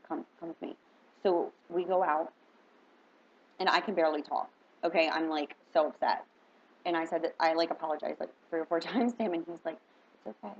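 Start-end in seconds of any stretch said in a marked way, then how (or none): 0.0-0.8 breathy whisper, no voice; whispered invitation. Retold or imitated. Sheriff whispering to the narrator to follow him, whispered. Sheriff leading her out gently. 10.2-10.6 soothing. Retold or imitated. Sheriff calming crying woman.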